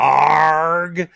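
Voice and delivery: loud, clipped mock scream. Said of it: "instead of saying".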